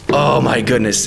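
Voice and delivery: breathless whispered awe; awed whisper. Real, not acted. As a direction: whisper it, moved by the music. Awed by the song.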